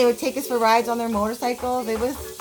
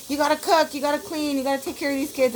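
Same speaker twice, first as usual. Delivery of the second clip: put-on higher, bossy mother ordering kids around; bossy mom; 5 semitones higher, faster than usual. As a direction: bark chores at the kids like a strict mom. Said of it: "boss them around".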